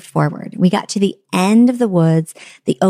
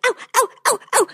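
mock yelps; 4 dB quieter, much faster than usual. Mother bitten by mosquitoes yelping ow in mock pain. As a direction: yelp ow at each bite. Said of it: "I'm screaming".

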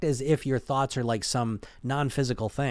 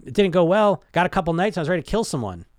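louder, higher, exasperated retelling; frustrated client reply; 4 semitones higher, 6 dB louder than usual. Retold or imitated. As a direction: blurt it out like a fed-up client. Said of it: "So how'd it go?".

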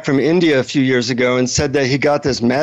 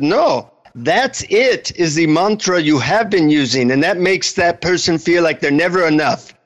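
lightly put-on Indian guru accent; a hint of Indian accent, measured; 2 semitones higher than usual. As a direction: correct them patiently in an Indian accent. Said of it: "in an Indian accent".

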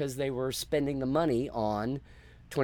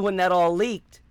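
usual speaking voice

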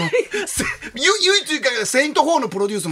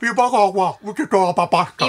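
imitation; slower than usual. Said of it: "高遠力のモノマネ".

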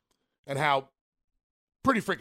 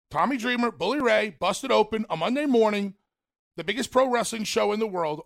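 louder, higher show-hype build; emphatic radio hype, pitch raised; hyped up; 5 semitones higher, 5 dB louder than usual. Real, not acted. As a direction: sell how big the show is. Hyping the show's reach.

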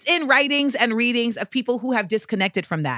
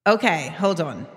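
fake British accent; 6 semitones lower than usual. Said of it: "Why am I doing a fake British accent?".

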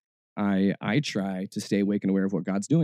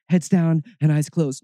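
loud, high parody of pious praying; mock solemn; 6 semitones higher, 7 dB louder than usual. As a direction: intone it loudly like an overdone holy man.

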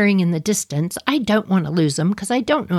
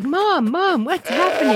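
panicky goat voice; 7 semitones higher than usual. Pretend. Voicing panicked goats.

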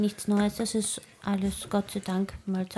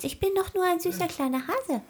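higher, sweet playing-innocent voice; innocent cutesy voice; 10 semitones higher than usual. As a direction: act the cute little bunny. NPC plays innocent bunny.

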